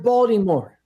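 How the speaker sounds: "Baltimore" with the middle i as a long "ee". Shown as a demonstration. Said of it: "That I in the middle is enunciated and pronounced as a long E".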